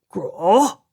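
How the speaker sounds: a lightly voiced, cheerful troll grunt; a friendly creature's sound, cheerful. A narrator's reading. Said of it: "it said cheerfully".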